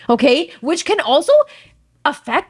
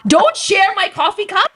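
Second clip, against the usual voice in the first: mock disgust; 7 semitones higher, slower than usual. Shooing husband before parents.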